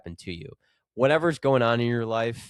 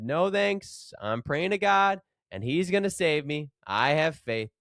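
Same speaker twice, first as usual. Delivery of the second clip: stubborn refusal; 5 semitones higher than usual. Acted. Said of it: "the stranded man said".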